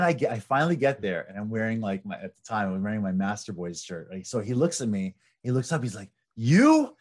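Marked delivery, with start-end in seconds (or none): 6.4-6.9 high, loud, hammed-up double take; mock shocked disbelief. The opponent finally recognizes the poster at the match, in loud mock shock. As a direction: shriek it like you just caught him.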